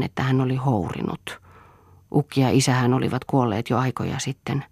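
usual speaking voice

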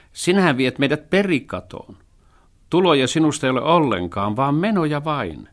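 the thrifty cat scolds the dog; scolding cat. A narrator's reading. (torujan kissan ääni)

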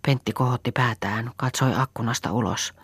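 ordinary delivery, nothing marked

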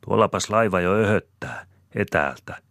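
high, loud call. A narrator's reading. Rosina calls out to the family, pointing at the steamer. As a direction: call out, spotting the steamer far off. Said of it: "huudahtaa Rosina".

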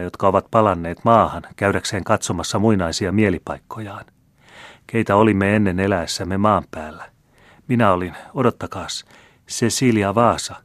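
a playful, teasing noblewoman; a hint of a coquettish marquise. Marquise voiced in story.

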